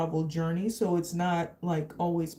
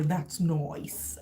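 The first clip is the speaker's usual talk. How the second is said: British "nice"; 3 semitones lower than usual. Retold or imitated. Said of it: "I love when they say".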